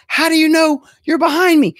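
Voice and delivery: put-on high, loud old-lady holler across a parking lot; old woman yelling. Old woman calls for her friend in the lot, high loud holler. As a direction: shriek the name like a lost grandma. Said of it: "And then Sharon's yelling".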